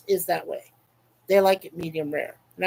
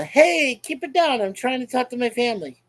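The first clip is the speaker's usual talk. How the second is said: telling off; 4 semitones higher than usual. Real, not acted. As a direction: shush the interruption firmly. Telling someone off mid-stream.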